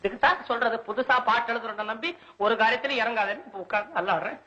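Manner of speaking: self-reproachful, running complaint; grumbling lament. Acted. Thwarted poet regrets trusting a new poem, grumbling lament. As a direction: grumble to yourself about your luck. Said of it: "என்ன புலம்புகிறீர்".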